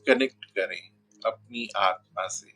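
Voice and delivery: unhurried meditation guidance with long pauses; guided meditation. Real, not acted. Guru settling viewers into Navratri meditation, measured guided-meditation voice. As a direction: lead them gently inward, phrase by phrase, leaving long silences.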